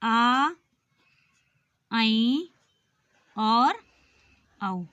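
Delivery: आ, आई, औ said slow, low and loud, each held apart; vowel demo. Shown as a demonstration. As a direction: sound out each vowel, mouth half open. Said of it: "example देखिए दोस्तों".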